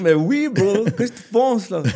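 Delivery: high and loud, bragging; hyped son boasting to his laughing father; cocky excited reply. Retold or imitated. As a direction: shout back like it's obvious. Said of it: "Je dis".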